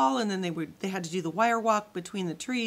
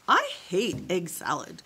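groaned; 4 dB louder than usual. A narrator's reading. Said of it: "groaned Ava".

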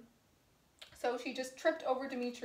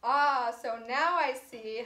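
slow, louder cry of realisation; a louder, drawn-out realisation; cried out; 5 dB louder than usual. Acted. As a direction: call out as the truth dawns. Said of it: "Helena cried".

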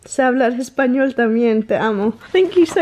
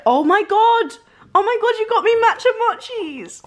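fast, high, laughing gush; excited squeal; 12 semitones higher, faster than usual. Real, not acted. Opening a fan's gift, she gushes with laughing delight.

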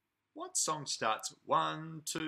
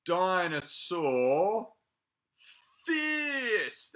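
fierce voice; 5 dB louder, much slower than usual. Acted. Reading fierce page.

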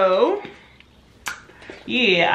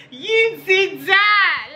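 excited high praise; 11 semitones higher, much slower than usual. Pretend. Hyping repeat, higher.

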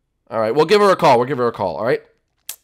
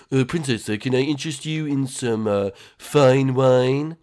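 fake-French waiter, stretched last words; attempted French accent. Waiter offering the princess wine, put-on French accent. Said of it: "try French".

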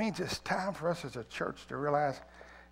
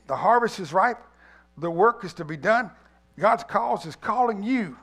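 urgent pleading; 4 semitones higher, 8 dB louder than usual. A narrator's reading. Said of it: "with a more urgent turn, tone".

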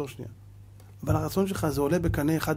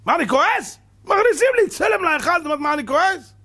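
loud, higher-pitched indignant retort; imitating God's angry reply to Rachel; 10 semitones higher, 5 dB louder than usual. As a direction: thunder back the complaint. God answers Rachel in anger.

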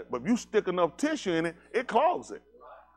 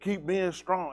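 slow, soothing mock praise; 2 semitones higher, slower than usual. Modern parent praising crying kid, mock soothing. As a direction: coo like an overly gentle modern parent. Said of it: "they be".

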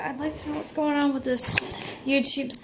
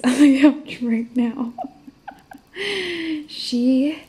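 laughing; 3 semitones higher, 6 dB louder, slower than usual. Real, not acted. Laughing at the dog.

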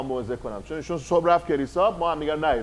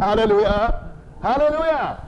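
"هللویا" cried out, the second climbing much higher; excited hallelujah; 4 semitones higher, slower than usual. Shown as a demonstration. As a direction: burst out "هللویا" with joy. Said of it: "مثل من هیجان زده بشید بگید". ("هللویا" با هیجان و صدای بالا)

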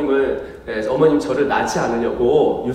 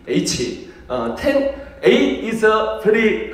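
slow, higher exaggerated Korean-accented English; 콩글리시 흉내; Konglish; 5 semitones higher, much slower than usual. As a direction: ham up a broken Korean English. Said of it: "토종 한국인입니다".

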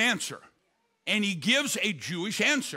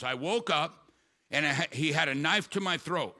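low, matter-of-fact policeman readback; lightly voiced officer echoing a statement; repeating it back; 4 semitones lower than usual. Policeman reading a victim's statement back to her, lightly voiced, low. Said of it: "he's repeating it back".

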